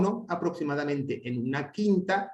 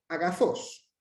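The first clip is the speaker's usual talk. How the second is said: AGAZOS with higher pitch on final ZOS; acute accent; 4 semitones higher, slower than usual. Shown as a demonstration. Teacher showing standalone word, acute final accent on AGAZOS. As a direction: lift the last syllable of AGAZOS in pitch. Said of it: "el acento sería agudo".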